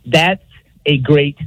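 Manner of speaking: drawn-out stalling "That's a great question"; mock stalling coach. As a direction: stretch it like a coach buying time. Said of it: "I call it the tag cue".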